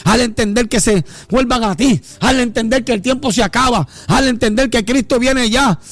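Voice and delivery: preaching prayer, building in force; fervent prayer. Acted. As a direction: pray aloud over the congregation with rising fervour. Oración fervorosa ante la congregación. (oración ferviente de predicador que va creciendo)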